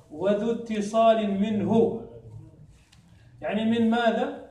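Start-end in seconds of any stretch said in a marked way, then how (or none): 0.1-2.0 slow, measured reading of a verse; verse recitation. Retold or imitated. Teacher quoting the poem's next line to students, slow recitation. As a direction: recite the line slowly, drawing out the syllables. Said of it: "لهذا قال بعد ذلك".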